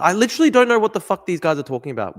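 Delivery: loud, high exasperation; exasperated. Real, not acted. Streamer about viewers' Gilgamesh demands, exasperated. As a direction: burst out in total bafflement.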